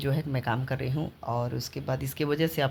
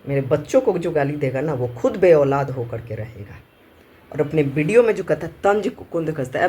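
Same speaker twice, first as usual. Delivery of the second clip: real angry scolding, louder than everyday talk; angry rant; 2 semitones lower, 4 dB louder than usual. Real, not acted. Mother cursing those who abused her children, angry scolding. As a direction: curse them with forceful, heated emphasis.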